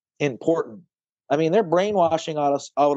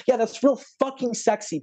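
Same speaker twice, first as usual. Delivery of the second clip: bitter sarcasm; 8 semitones higher than usual. Real, not acted. Sarcastic retort about sexy stories.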